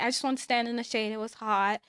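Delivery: fast, offhand brush-off, a quick mock excuse; rushed excuse. Retelling her excuse to the girls, fast and offhand. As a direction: toss it off quickly like a fib. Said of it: "So I was like".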